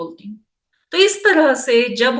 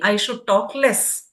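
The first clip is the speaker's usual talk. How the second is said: very slow, softer example sentence; 3 dB quieter, much slower than usual. Shown as a demonstration. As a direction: read it out slowly as a sample. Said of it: "जैसे मैं बोल रही हूँ". (नमूने का वाक्य बहुत धीमे और हल्के स्वर में)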